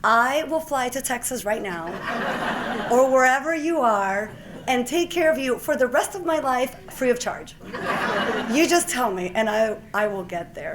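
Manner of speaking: loud, high, laughing over-the-top offer; a doctor eagerly offering to fly to Texas; excited eager reply. Retold or imitated. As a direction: gush your devotion to the caller.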